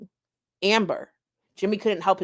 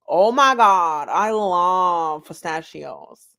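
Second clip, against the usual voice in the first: excited squeal; 4 dB louder, slower than usual. Acted. Excited tiny Amber character.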